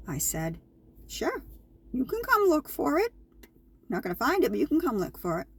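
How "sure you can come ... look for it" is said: sarcastic. Retold or imitated. Replying to company president's offer.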